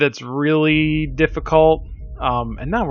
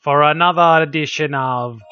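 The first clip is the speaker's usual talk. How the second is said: put-on old man voice; 4 dB louder than usual. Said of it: "I don't know why I'm doing the accent. I'm the old man".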